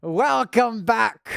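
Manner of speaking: high, slow hammed-up pirate intro; mock pirate host voice; pirate accent. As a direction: open the episode like a cartoon pirate captain. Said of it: "I'll do a pirate accent".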